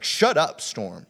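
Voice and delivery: loud, high-pitched burst on the command; sharp rebuke. Retold or imitated. Jesus rebuking the storm, sharp loud command. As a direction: hit it hard, then drop away. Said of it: "is Jesus sharply saying".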